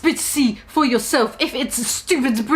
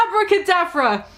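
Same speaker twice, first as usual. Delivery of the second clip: yelled; 5 semitones higher than usual. Acted. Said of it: "he yelled at Snape and Lupin".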